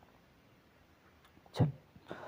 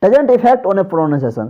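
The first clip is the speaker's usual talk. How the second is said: forceful, raised-voice demonstration; louder; much slower than usual. Shown as a demonstration. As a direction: come in suddenly strong after the slow part. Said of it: "फिर जोर से बोले".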